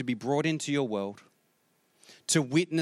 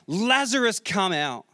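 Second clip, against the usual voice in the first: raised voice, Lazarus pitched high and calling out; loud call; 3 semitones higher than usual. Acted. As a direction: call him out of the grave, loud. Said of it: "Jesus called out in a loud voice".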